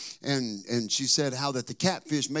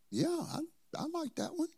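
mock enthusiasm; 6 dB quieter than usual. Feigning enthusiasm to daughter.

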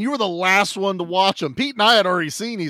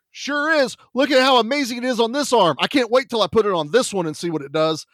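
higher, excited mock enthusiasm; mock amazed boast; 5 semitones higher than usual. Comedian answering a stranger, hammed-up amazement. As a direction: show off the arm with fake wonder. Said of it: "He goes".

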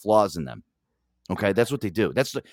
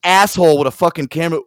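ordinary delivery

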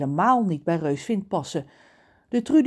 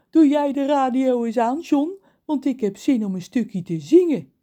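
cheerful; 7 semitones higher, 6 dB louder than usual. Acted. Reus vrolijk.

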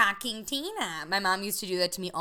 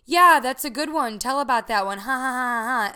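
mock mom laughing along; 4 semitones higher, 8 dB louder than usual. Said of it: "thinking she was gonna be like".

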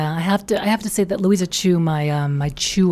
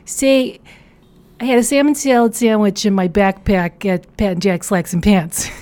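put-on Chicago accent; 2 semitones higher, 4 dB louder than usual. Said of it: "can you even do a Chicago accent".

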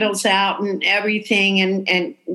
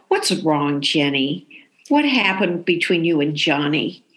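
concerned friend; 5 semitones lower than usual. Acted. Typecast friend of the lead asks Jenny about Johnny, low concern. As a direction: gently probe a friend's heartache. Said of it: "you played a lot of ingenues, friends of the lead".

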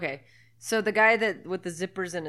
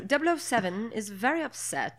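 higher put-on British; British accent; 4 semitones higher than usual. Resuming the film recap, put-on British accent. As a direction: announce it in a mock British accent. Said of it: "go back to British".

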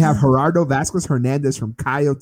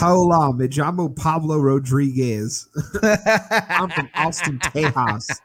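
hammed-up Spanish accent, slow and laughing; playful Mexican accent, Texas said "Tehas"; a hint of a Tex-Mex accent; mock Spanish accent; slower than usual. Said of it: "That's how they say it down there".

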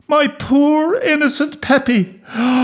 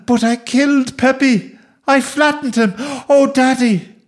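high, wailing, gasping explanation; hysterical child; 11 semitones higher than usual. Acted. Boy explaining the accident to his daddy, hysterical wailing. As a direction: pour it out high and distraught.

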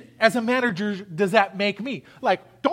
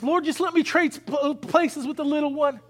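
higher, imploring minister begging God; pleading prayer; 5 semitones higher than usual. Retold or imitated. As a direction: plead to trade places with the child. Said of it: "He goes".

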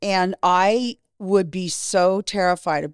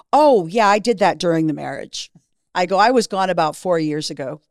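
sarcastic retort; 4 dB louder than usual. Retold or imitated.

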